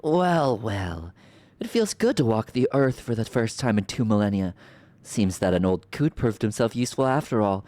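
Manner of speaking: regal, mocking sorceress voice; theatrical sorceress villain. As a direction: purr the lines like a smug villain. Voicing villain sorceress dialogue.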